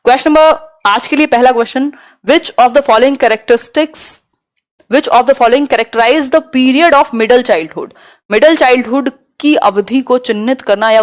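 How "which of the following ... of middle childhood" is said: reads the English question word by word, very slowly. Acted. Teacher reads a test question to students, slow and deliberate. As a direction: dictate the exam question at half speed.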